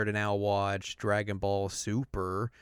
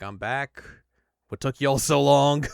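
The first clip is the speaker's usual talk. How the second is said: Frieza voice; 3 semitones higher, 7 dB louder than usual. Retold or imitated. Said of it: "Frieza's awake and is just like".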